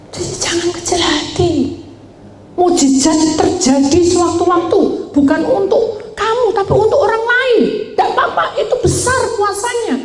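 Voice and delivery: high, ringing sermon climax; preacher encouraging the poor congregation, high and ringing; preaching at full force. Acted. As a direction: lift the congregation, proclaim it high.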